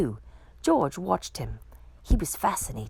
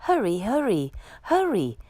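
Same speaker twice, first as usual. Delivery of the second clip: urgent hurry; 3 semitones higher than usual. Acted. Firemen urging each other on, urgent. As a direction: rush them out the door.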